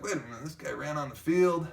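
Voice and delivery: mock-amused line ending in a short laugh; laughing and joking. Officers joking about the guy who ran on the field, imitated laughing. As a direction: imitate officers having a chuckle. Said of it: "some officers laughing and joking".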